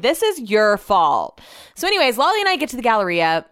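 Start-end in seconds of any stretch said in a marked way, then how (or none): 0.0-1.4 slow, louder accusing drawl; drawn-out mock blame; blaming drawl. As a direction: pin it on him, slowly. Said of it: "And I'm like".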